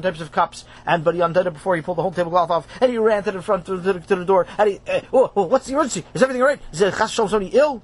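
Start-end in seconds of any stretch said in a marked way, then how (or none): 5.1-7.8 anxious, rising worried voice; alarmed. Acted. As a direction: panic a little. Rav alarmed at emergency.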